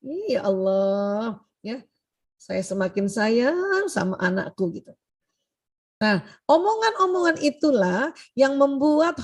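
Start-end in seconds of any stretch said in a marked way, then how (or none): 0.0-4.8 gumaman doa sambil masak. Retold or imitated. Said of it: "mulutnya juga ngomong".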